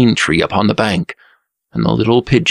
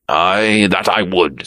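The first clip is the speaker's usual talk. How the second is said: mildly indignant affirmation. A narrator's reading. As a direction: affirm it with a touch of offence. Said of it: "said the Black Prince indignantly".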